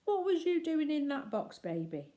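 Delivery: put-on sing-song voice for a baby; baby talk to infant. Bill speaks to the baby.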